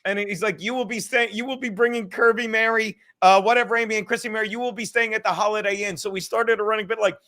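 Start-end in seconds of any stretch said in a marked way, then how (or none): 0.6-5.9 game show announcer. Retold or imitated. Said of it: "he talks like a game show announcer sometimes".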